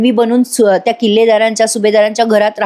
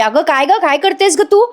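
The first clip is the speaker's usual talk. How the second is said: mock yell; 5 semitones higher than usual. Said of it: "ओरडून म्हणते".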